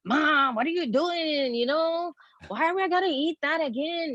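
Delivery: put-on high, sing-song Hispanic accent. Child whining to mom after school in a Hispanic accent. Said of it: "I'd have a Hispanic accent".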